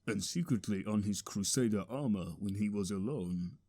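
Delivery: very low, soft secret; confidential aside. A narrator's reading. Narrator confides the hero's secret, low and hushed. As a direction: drop down and confide it.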